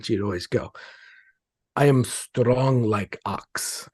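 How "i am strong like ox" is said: slow, lightly put-on Russian accent; a hint of a Russian accent, said slowly and proudly. Husband imitating his wife's catchphrase in a mild Russian accent. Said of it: "she would always say that in a Russian accent".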